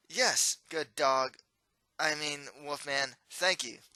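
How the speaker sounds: slow, flustered, self-correcting; nervous stumble. Acted. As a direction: trip over the words nervously. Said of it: "so he shakes and stumbles on his words".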